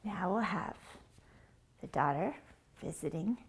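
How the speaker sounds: unvoiced whisper; whispered narration. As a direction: breathe it out.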